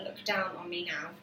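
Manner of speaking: whispered line. Shown as a demonstration. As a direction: whisper it softly.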